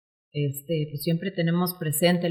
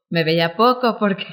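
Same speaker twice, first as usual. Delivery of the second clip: laughing; 3 semitones higher, 6 dB louder than usual. Real, not acted. Laughs at her busy past.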